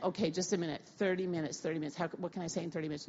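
hushed, hurried worried thoughts; quietly flustered inner voice; inner panic. Retold or imitated. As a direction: mutter the panic to yourself quickly. Retells her own panicked thought.

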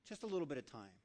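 softly repeated gentle plea; still small voice. Acted. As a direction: plead quietly, like an inner nudge. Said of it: "The still small voice".

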